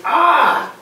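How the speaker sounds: high, loud "ah" of relish; savouring "ah". Acted. Pigeon about to eat his hot dog, savouring "ah". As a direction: open up on a big acted sigh of pleasure.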